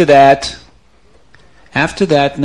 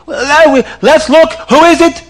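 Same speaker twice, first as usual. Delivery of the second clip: sly brothers; 13 semitones higher, 7 dB louder than usual. Acted. Brothers feign curiosity at body.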